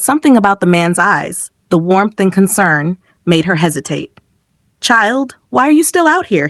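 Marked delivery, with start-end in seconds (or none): 4.8-6.5 worried. A narrator's reading. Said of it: "voice filled with worry".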